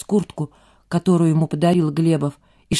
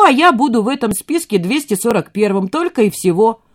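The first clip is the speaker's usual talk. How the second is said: put-on higher, louder, defiant boy's voice; a cornered teenager talking back; agitated teenage son; 6 semitones higher, 5 dB louder than usual. A narrator's reading. Kostya argues with Glebov.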